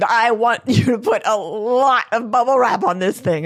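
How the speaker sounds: insistent demand. Retold or imitated. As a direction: press them, raising your voice.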